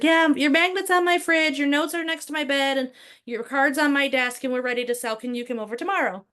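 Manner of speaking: a hint of the client reassuring him; imitating the client. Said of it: "She's like".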